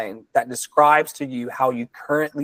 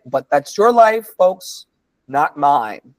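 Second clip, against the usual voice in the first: sassy aside; 3 dB louder than usual. Real, not acted. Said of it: "pointed aside to audience".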